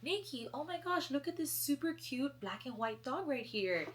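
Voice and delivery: high excited gushing mom; lightly voiced excited mother. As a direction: mom calling her over, thrilled. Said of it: "my mom goes".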